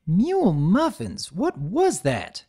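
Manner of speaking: slow, dazed farm-filly drawl; groggy, slowly shaking it off; dazed filly after a blast; dazed country filly. Acted.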